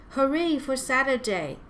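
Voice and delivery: high storybook cheer. A narrator's reading. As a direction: cheer it out gladly. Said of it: "they cheered".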